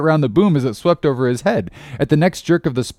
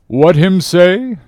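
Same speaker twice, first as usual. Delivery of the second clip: slow, raised, puzzled question in broken English; Queequeg; 7 semitones higher, 7 dB louder, slower than usual. A narrator's reading. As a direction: ask it loud and slowly, as a foreign harpooner. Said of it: "said Queequeg, as he mildly turned to me".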